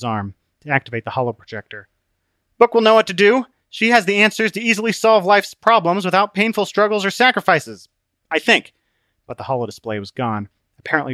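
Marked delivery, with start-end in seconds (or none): 2.6-8.7 high, eager character voice; hopeful character. Acted. Trapped traveller counting on Book to save him, hopeful. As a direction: pitch it up, confident of rescue, then hedge.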